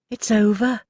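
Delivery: It's over said loud and firm, both words hit; emphatic. Acted. Pearl to Mrs Frobisher, emphatic and loud. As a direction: slam it down with finality. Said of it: "Pearl said emphatically".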